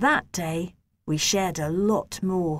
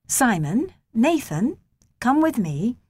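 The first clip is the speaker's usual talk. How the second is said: raised teacher voice calling names; 4 semitones higher, 4 dB louder than usual. Acted. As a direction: call the two boys over, higher. Teacher calling the boys over.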